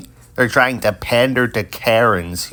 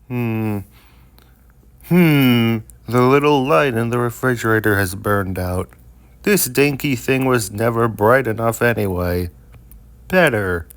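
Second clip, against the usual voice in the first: comic character. Acted. Acting out a Garfield comic.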